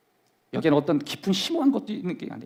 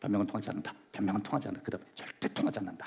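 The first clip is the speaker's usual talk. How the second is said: quiet demo; 6 semitones lower, 10 dB quieter, faster than usual. Shown as a demonstration. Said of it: "처음에는".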